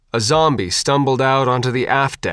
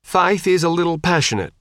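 apologetic; 6 semitones higher than usual. A narrator's reading. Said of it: "Steve said in apology".

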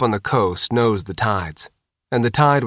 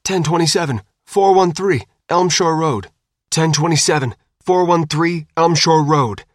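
higher, louder clipped dispatcher call; urgent radio dispatch; 6 semitones higher, 4 dB louder than usual. Acted. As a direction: rattle off codes like a dispatcher under pressure. Police dispatch radio calls.

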